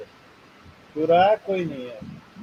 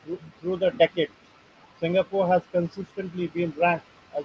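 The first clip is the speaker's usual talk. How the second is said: halting read-aloud from a printed article; much slower than usual. Real, not acted. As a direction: read the text out in short phrases. (लेख पढ़कर सुनाते हुए)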